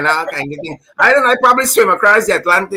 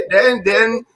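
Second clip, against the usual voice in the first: laughing; 3 semitones higher than usual. Real, not acted. Joking about being deported.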